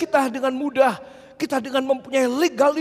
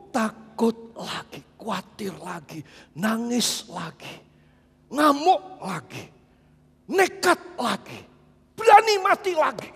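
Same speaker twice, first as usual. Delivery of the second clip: building climax. Acted. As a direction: build each phrase to the last cry. List building to peak.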